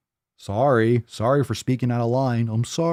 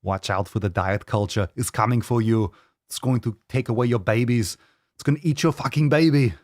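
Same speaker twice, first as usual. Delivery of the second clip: mock spooky warning. Continues spooky warning, lower.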